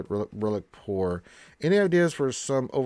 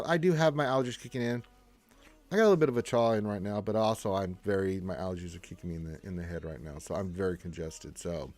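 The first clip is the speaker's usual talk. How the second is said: mouth full; 4 semitones lower than usual. Real, not acted. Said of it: "sound a bit like you have a cotton ball in your mouth".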